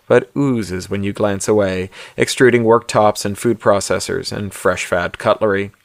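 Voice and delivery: measured audiobook-style narration; story narration. A narrator's reading. Author reads his novella aloud to listeners, story narration.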